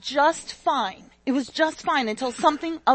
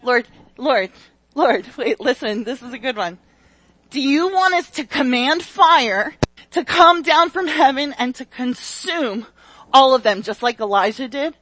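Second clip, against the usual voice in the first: loud, eager pleading pitch; eager disciples; 6 dB louder than usual. Acted. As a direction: burst in like you have a great plan. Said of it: "I have an idea".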